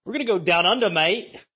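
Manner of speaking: bad Aussie accent. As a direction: put on a bad Australian accent. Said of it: "doing that accent".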